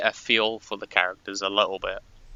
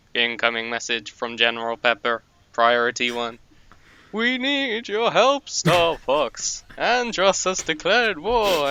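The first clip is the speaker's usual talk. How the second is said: high, pitched-up game-character announcer voice; 6 semitones higher than usual. Recalling the opening of Star Fox 64, doing a ROB impression. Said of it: "the impression just got me. It was too good".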